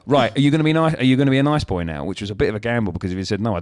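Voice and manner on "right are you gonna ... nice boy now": sing-song parent voice. Retold or imitated. Dad checks on toddler.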